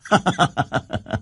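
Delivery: short, light laugh; soft chuckle. Real, not acted. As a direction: chuckle softly at your own point. Preacher chuckles at own example.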